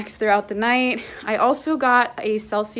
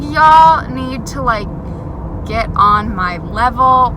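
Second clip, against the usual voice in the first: playful taunt; 4 dB louder, slower than usual. Retold or imitated. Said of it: "I was like".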